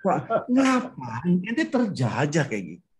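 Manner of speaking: long drawn-out, incredulous retort; imitated chiding, slow and swooping; mock disbelief. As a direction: stretch it out in exaggerated dismay. Acted reply to a grumbler.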